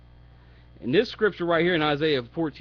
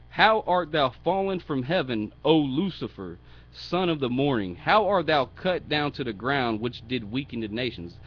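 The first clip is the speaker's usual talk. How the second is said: loud, mocking scripture reading; sarcastic mock praise; 4 dB louder than usual. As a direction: declaim it with a touch of sarcasm. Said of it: "He's being sarcastic right here".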